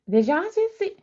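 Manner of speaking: real surprise, voice jumping up; startled exclaim. Real, not acted. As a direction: blurt it out in shock. Startled by a sign mid-reading.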